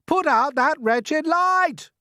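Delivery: high, slow, loud yell; shouted. Acted. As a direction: bellow it at the glowworm. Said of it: "he shouted".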